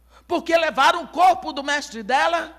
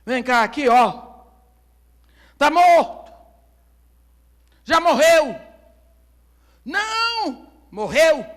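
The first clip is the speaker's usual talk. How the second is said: accusing; 2 semitones higher, 9 dB louder, slower than usual. Acted. Crowd shows the dead man.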